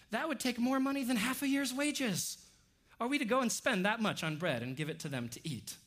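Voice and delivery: high, indignant protest at the start, then settling; acted-out sarcastic objection; offended sarcasm. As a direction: push back as if affronted. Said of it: "the sarcasm that we see here in the disciples".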